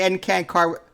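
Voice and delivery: choppy, halting mock Spanish; mocking imitation. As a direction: imitate her clumsy Spanish syllables. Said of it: "that's what you sound like when you say".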